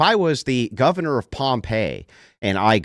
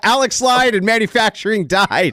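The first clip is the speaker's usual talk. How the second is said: speaking through laughter, higher pitch; 9 semitones higher, 4 dB louder than usual. Joking during a debate with another speaker: laughing while talking. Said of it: "just stop laughing like a jack".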